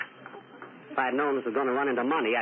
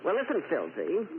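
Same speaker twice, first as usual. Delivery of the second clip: Mae West impression; 3 semitones higher than usual. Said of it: "make believe it's Mae West".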